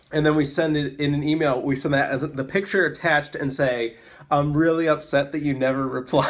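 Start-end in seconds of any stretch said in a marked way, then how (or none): 4.3-6.3 mock-sad plea breaking into laughter; mock upset. Reading out the guilt-trip follow-up email, mock upset. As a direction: play hurt, cracking up on the last word. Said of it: "sad photo of me".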